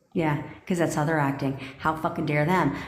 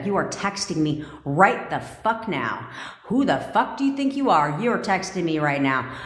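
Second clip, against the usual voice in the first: barked commands, raised voice; drill sergeant. Acted. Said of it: "I felt like a drill sergeant there for a second".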